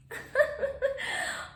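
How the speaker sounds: high, airy little laugh; restrained polite laugh. Shown as a demonstration. Woman showing a sense of humor, restrained laugh. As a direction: demo of a contained laugh. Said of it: "You don't need to laugh as a hyena".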